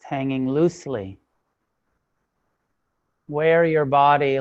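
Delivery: measured meditation instruction with long silences between phrases; guided meditation. Real, not acted. Teacher settling a class into sitting practice, spacious guided meditation. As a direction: guide the sitters phrase by phrase, leaving space.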